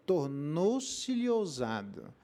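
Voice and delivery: "tornou-se-lhe ousado" drawn out very slowly, every syllable weighed; slow right down on "tornou-se-lhe ousado"; slow emphatic repeat. Shown as a demonstration. Pastor repeating the verse to the church, slow emphatic repeat.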